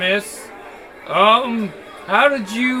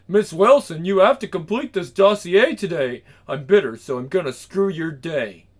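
imitating her boss. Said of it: "Imitating her boss's voice".

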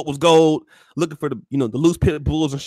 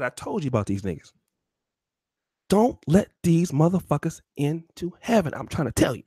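a weary God warning Jesus; God's voice; 5 dB quieter than usual. Acted. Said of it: "God said".

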